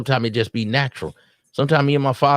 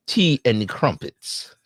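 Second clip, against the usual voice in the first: slow, hint of a put-on English accent; mock English snob; much slower than usual. Uppity Brit on tea, mock English accent. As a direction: lightly mimic a snooty English speaker. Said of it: "I speak the King's English".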